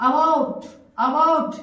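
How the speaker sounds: "about" opening on an open "a" as in अबाउट; correct pronunciation. Shown as a demonstration. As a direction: say "about" as a-BAUT, starting with अ. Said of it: "सही pronunciation". ("about" का सही उच्चारण, अ से शुरू)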